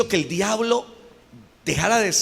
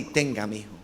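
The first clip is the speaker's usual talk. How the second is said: voice of God; 9 semitones lower, 7 dB quieter than usual. Acted. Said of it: "cuando Dios le dice a usted las verdades".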